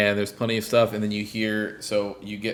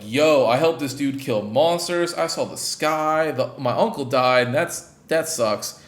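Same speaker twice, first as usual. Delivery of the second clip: put-on excited kid; 3 semitones higher, 4 dB louder than usual. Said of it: "immediately is like".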